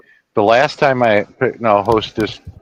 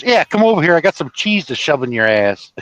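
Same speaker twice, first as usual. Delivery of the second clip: teasing friend; 6 semitones higher than usual. Retold or imitated. Italian friend teasing him, voiced.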